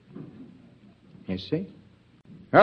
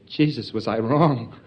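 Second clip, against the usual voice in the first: mock dismay. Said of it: "Gonna say".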